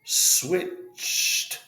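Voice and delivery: switched said as one clipped syllable, swished; one-syllable demo. Shown as a demonstration. Teacher modeling one syllable for students. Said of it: "You notice in all these words".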